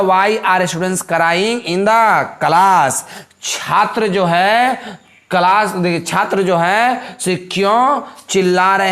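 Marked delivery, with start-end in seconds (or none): 0.0-3.0 "why are students" drawn out slowly; teacher slowly reading the exercise; slow dictation. Shown as a demonstration. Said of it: "तो हो गया".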